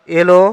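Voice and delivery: "এলো" opening on closed e; closed e pronunciation. Shown as a demonstration. Teacher reviews the earlier example, "এলো" as elo. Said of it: "এ উচ্চারণ".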